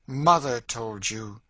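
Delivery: Mother drawn out loud and bitter; bitter stress on MOTHER. A narrator's reading. Woman scorns girl's mother's advice, bitterly stressing "Mother". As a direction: lean hard and slowly on "Mother". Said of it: "thrilling and bitter emphasis on the word mother".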